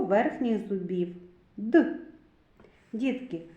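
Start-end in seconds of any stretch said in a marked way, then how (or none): 1.6-2.0 short isolated hard "Д"; hard D sound. Shown as a demonstration. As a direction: say "Д" as a bare hard consonant, tongue to the upper teeth. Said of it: "Коли ми вимовляємо звук Д, язичок підіймається". (твердий короткий звук «Д»)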